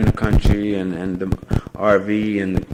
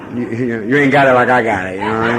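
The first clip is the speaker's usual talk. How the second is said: laughing; 6 dB louder than usual. Real, not acted. Laughs at own joke.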